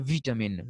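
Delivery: short i after V in Vitamin; British pronunciation. Shown as a demonstration. Teacher repeating the British form, Vitamin as "VIT-amin". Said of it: "I sound is there after V".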